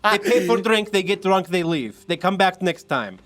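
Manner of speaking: wife brushing off her husband with scorn; scornful bartender. Acted. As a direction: scoff at the customers. The speaker scoffs in character.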